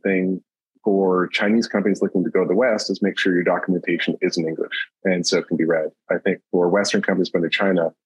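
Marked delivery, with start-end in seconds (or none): none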